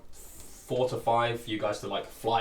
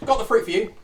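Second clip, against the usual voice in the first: Draconic tongue; 10 semitones higher, 8 dB louder than usual. Acted. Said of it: "weird tongue, Draconic".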